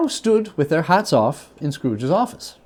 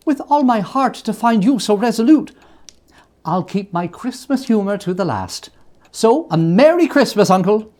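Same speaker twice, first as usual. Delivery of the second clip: put-on much higher, pleading young voice; pleading nephew; 8 semitones higher, 4 dB louder than usual. Nephew begging his uncle to be friends, high and pleading.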